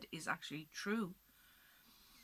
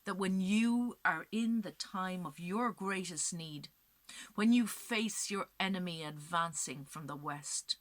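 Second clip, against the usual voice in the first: dying curse; 4 dB louder than usual. Acted. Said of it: "and she says".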